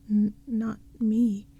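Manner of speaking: slow stuttering fright; a frightened boy's stutter; shivering stammer. Acted. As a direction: stammer it out, scared stiff. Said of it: "shivering in his witch's rags".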